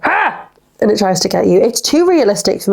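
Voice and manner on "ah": short high imitated raptor screech; a quick playful roar; mock dinosaur roar. Imitating the big raptor lunging at her with a mock screech. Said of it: "when it goes like".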